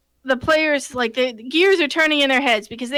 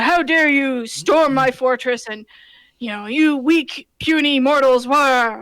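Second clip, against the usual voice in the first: villain monologue; slower than usual. Retold or imitated. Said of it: "he's given a great villain monologue".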